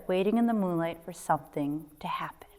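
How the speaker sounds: whispered narration. A narrator's reading. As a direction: hush it with suspense. Suspense in the dark.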